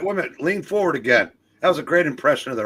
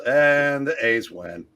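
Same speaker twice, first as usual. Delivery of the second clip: slow, higher, drawn-out win call; announcer's call; 4 semitones higher, much slower than usual. Acted. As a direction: stretch it out like a sportscaster. Mimicking a game-winning call.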